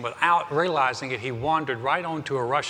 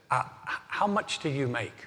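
softer, gentle and careful; gracious voice; 5 dB quieter than usual. Retold or imitated. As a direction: ask kindly so as not to anger the soldier. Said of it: "in a very gracious voice".

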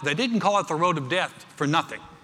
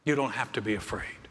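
comforting parent; 3 semitones lower than usual. Acted. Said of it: "You're like".

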